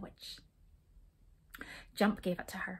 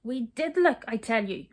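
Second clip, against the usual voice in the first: louder, insistent reply; cross; 7 dB louder than usual. A narrator's reading. Skip crossly insists to Hop they looked. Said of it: "said Skip crossly".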